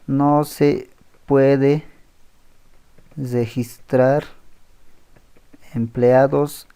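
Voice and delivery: word by word, long pauses between; slow dictation. Real, not acted. Teacher dictating the error message as he types, slow dictation. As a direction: spell out a message slowly, as if typing it.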